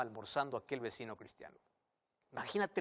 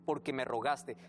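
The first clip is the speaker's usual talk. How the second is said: reproche airado. Acted. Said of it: "el señor enojado".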